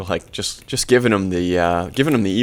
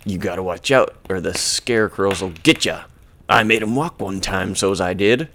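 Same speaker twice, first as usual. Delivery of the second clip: Stanley. Retold or imitated. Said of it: "Stanley's like".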